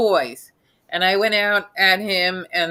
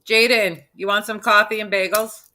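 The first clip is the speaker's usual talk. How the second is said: New York accent; 2 semitones higher than usual. Shown as a demonstration. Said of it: "I want Jaden to hear you say".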